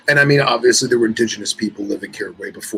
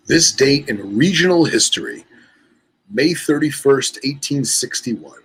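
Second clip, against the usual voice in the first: measured article-reading voice; reading aloud. Real, not acted. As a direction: read it out like a regional history column.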